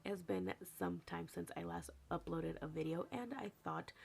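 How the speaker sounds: hoarse morning voice; rough just-woke-up voice; raspy voice. Real, not acted. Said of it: "My voice is kinda raspy".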